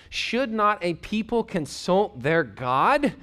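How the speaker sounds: slow scripture reading. Shown as a demonstration. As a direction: read each word slowly and deliberately. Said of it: "Finally, some clear thinking here".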